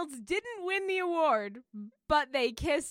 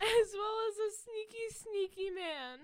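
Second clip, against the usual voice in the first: pushing the words out through giggles; laughing; 5 semitones higher than usual. Real, not acted.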